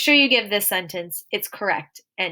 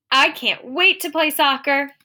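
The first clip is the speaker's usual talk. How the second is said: higher, eager exclamation; excited; 5 semitones higher, 4 dB louder than usual. Shown as a demonstration. Teacher voicing someone keen to play soccer, excited. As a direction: burst out with eager anticipation. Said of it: "This is an excited statement".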